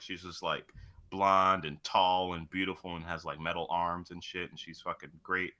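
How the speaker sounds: ordinary talk, nothing marked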